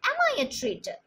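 high-pitched indignant question, not really asking; emphatic rhetorical question. Shown as a demonstration. Teacher demonstrating a rhetorical question with mock indignation. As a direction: fling the question out as a protest of innocence. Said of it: "I am not demanding an answer".

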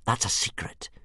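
uncomfortable. Acted. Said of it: "said Hiccup uncomfortably".

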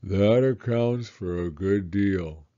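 low, slow, glum donkey; gloomy. Acted. Eeyore accepts his loss, low and glum. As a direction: sound resigned to bad luck. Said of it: "said Eeyore gloomily".

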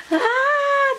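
real high squeal of delight; excited squeal. Real, not acted. Squeals on seeing the gift.

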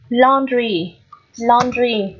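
"laundry" with a long open O. Shown as a demonstration. Teacher modelling the last word for students, long O in "laundry". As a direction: hold the AU in "laundry". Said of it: "Đây cũng là âm O dài".

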